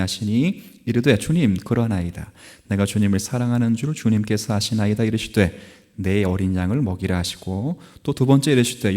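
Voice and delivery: measured reading of the Bible passage; scripture reading. Acted. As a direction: read the verses aloud to the congregation. Reads scripture to congregation.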